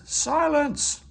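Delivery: loud, high bellow. A narrator's reading. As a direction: roar for silence. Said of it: "he bellowed".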